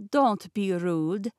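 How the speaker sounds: slow, lightly voiced Russian accent; a hint of smooth Russian, unhurried; thick Russian accent. Rasputin scolding Peter, slow light Russian accent. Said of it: "in his thick Russian accent".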